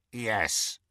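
a grudging elf's yes, held back; hushed old elf; Kreacher's reply. Acted.

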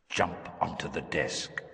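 soft, slow and far away; calling from a distant chamber; distant echoing voice. Acted. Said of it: "voice echoing in some distant chamber".

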